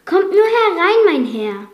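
loud high welcoming call; calling out loudly. Acted. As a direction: call out warmly across the room. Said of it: "rief laut zu Maurice". (lauter einladender Ruf)

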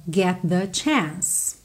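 "get the" merged into one sound, T folded into "the". Shown as a demonstration. Teacher joining "get the" for the class. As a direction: blend "get the" into a single sound. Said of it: "junta num som só".

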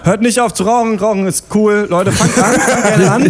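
ironic, laughing mock advert pitch; sarcastic. Mock anti-smoking advice.

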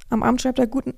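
losing the voice while reading; voice giving out. Real, not acted. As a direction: voice failing mid-sentence. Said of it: "meine Stimme ist weg".

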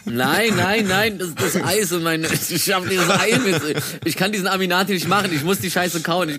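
talking with mouth full, still choking; swallowed wrong way. Real, not acted. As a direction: speak through a mouthful of egg, half choking. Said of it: "Warte, ich hab mich verschluckt". (verschluckt, mit vollem Mund)

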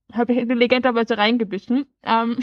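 talking with a mouth full; words around a bite of cookie. Real, not acted. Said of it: "erzähl uns jetzt direkt mit vollem Mund".

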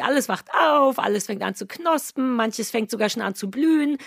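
cheerful ad read voice. Acted. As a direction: read it like a radio ad. Reads ad intro.

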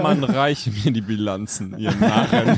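pompous king. Pretend. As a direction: play the crowned CEO ordering fools. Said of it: "Eine Krone, kommt er immer in Walmart rein".

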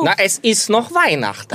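high mock plea of his mother; mock mother protesting. Son imitating his mother as she protests his departure. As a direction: play the mother whining why he's leaving already.

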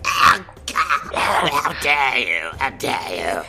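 shaking with anger. Retold or imitated. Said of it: "she's just like".

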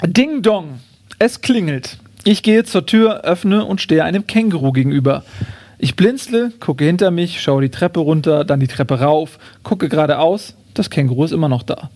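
measured, clearly phrased book reading; reading a comic story aloud; story narration. A narrator's reading. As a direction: read the chapter aloud with deliberate pauses. Reads first chapter aloud.

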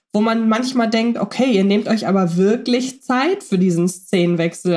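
ordinary delivery

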